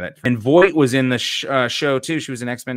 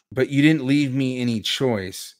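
usual speaking voice

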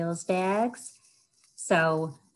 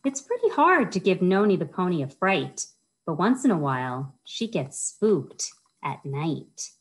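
lilting read, slowing down on the spooky end; storytime reading. Acted. Librarian reads the spooky line to kids, slowing storytime voice. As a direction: draw the kids in toward the scary part. Reads rhyming picture book aloud.

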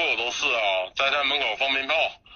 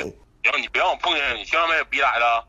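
threatening anger; 4 semitones lower than usual. Real, not acted. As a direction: warn him off, mildly menacing. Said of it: "你别急眼".

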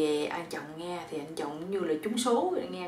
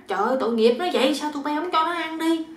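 quick, higher exclamation of pity; pitying reproach; 7 semitones higher, 4 dB louder, faster than usual. Acted. Mother-in-law hears the bird is starving, pitying reproach.

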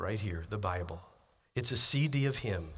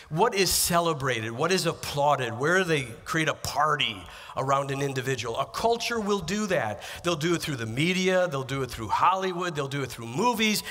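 forceful preaching; 3 semitones higher, 4 dB louder than usual. Acted.

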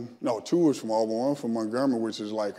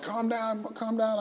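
higher, soothing mock nurse voice; mimicking the nurse; 10 semitones higher, 5 dB quieter than usual. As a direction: lightly mimic a nurse calming a patient. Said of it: "the nurse was like".

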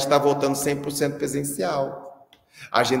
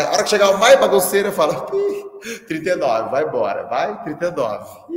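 mock shooing; 2 semitones higher, 7 dB louder than usual. Acting out sending kid home.

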